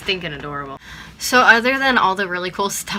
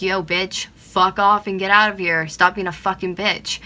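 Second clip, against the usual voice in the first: louder, fed-up cursing; angry swearing, louder on fuck off; retold angry tell-off; 3 semitones higher, 6 dB louder than usual. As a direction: snap back at the rude driver. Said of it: "I felt the need that I had to be like".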